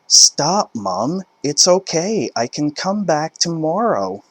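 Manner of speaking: high, urgent plea; embarrassed daughter. Acted. Daughter begging her mum to stop, high urgent voice. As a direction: try to calm her mother down.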